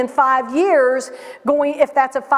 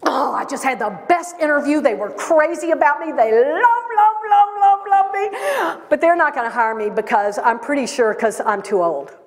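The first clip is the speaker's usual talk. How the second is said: imitating a woman who boasts then undercuts herself; mock bragging that sinks into self-doubt; gushing then deflated. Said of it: "there was this woman talking".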